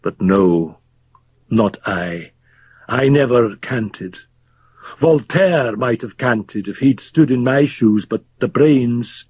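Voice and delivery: lightly voiced drunk, brooding aloud; a hint of the bitter old doctor; drunken old Fettes. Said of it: "Fettes ranting to the listeners".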